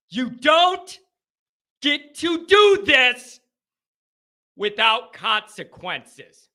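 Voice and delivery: slow, broken into deliberate chunks; measured indignation with heavy pauses; controlled anger. Real, not acted. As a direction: repeat it firmly, easing down at the end. Repeats the outburst more controlled.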